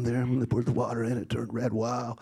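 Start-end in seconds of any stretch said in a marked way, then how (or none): none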